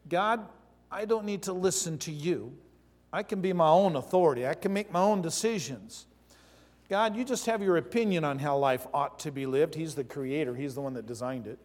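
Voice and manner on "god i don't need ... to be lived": higher, louder defiant challenge; defiant voice of sin. Acted. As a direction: talk back to God proudly. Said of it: "Sin is that thing ... says".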